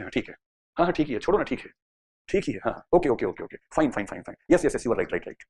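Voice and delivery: lazy, offhand yeses tossed out without thinking; dismissive agreeing. Acted. A student in energy-saving mode, mumbling careless agreement. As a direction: nod along, not really listening. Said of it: "जब आप इस mood में हैं कि ठीक है".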